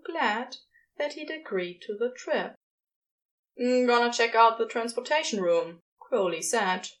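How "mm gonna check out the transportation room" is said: excited. Acted. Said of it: "buzzing with excitement".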